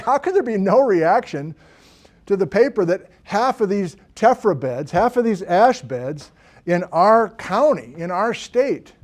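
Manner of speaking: emphatic, incredulous retort. Retold or imitated. Lecturer retelling his reply to colleague, incredulous. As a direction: stress each phrase in mild disbelief.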